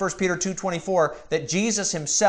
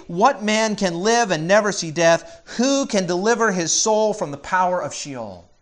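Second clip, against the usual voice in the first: slightly raised, emphatic scripture reading; declaimed question; 4 semitones higher, 4 dB louder than usual. Retold or imitated. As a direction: press the psalm's question forcefully. Preacher declaims the psalm's challenge.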